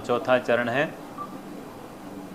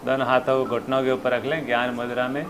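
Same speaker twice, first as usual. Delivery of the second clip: soft, calm breathing guidance; guided meditation; 4 dB quieter than usual. Real, not acted.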